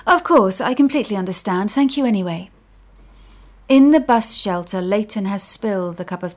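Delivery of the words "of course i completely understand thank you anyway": forced politeness. Acted.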